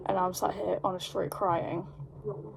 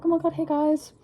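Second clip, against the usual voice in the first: put-on drunken happy greeting; 8 semitones higher than usual. Drunk hugging everyone, all happy.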